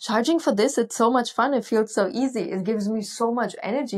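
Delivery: incredulous gushing, fading toward plain; excited protest. Retold or imitated. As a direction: protest that it's too much fun to charge for. Her amazed protest to the mentor.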